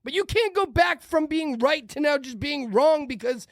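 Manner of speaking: high-pitched, exasperated ranting; worked-up rant. Real, not acted. Host telling former opponents they were right, worked-up rant. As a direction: rant insistently at the camera. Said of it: "not screaming at the camera".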